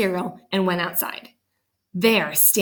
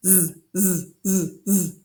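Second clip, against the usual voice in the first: snoring; slower than usual. A narrator's reading. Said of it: "asleep like this".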